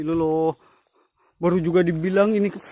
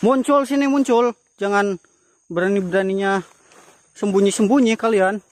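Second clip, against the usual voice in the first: raised, high challenging call; 3 semitones higher than usual. Real, not acted. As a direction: call out to the spirits boldly. Challenging the hidden ghosts.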